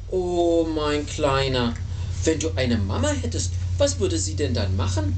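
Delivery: tender sighing mother bear; storybook motherly sympathy. A narrator's reading. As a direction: sigh it kindly to a little one, slowing on the endearment. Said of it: "seufzte sie".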